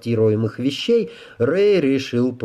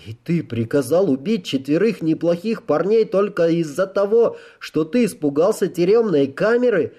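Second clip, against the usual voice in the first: lightly voiced, raised-pitch accusation; accusing Rey; 8 semitones higher than usual. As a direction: press the officer with a disbelieving question.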